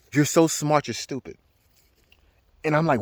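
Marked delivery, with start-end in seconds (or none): 0.1-1.4 a slow, faintly otherworldly voice that drops to almost nothing at the end; lightly voiced inner voice, slow and fading; voice of the mushrooms. The mushrooms talking to him in a slow, fading voice. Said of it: "It said".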